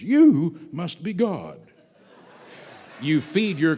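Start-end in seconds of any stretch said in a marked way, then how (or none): 0.0-1.6 slow, laughing adoring dog; laughing, slow devoted dog. Retold or imitated. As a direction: gush like a devoted pet, with a laugh. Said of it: "your dog looks at you and says".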